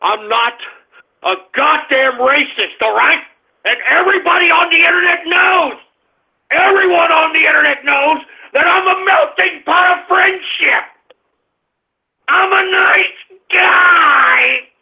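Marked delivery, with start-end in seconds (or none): 3.6-10.8 indignant streamer yelling at his chat; angry rant. Acted. Ranting at chat. 12.3-14.7 half-sobbing yell of wounded pride; tearful shout. Acted. Ranting at chat.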